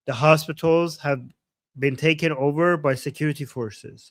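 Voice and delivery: spaced out, with pauses between phrases; deliberately slow. Retold or imitated. Translator relaying a guest's careful repeat to viewers, slowly and deliberately. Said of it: "I'm gonna say it slowly".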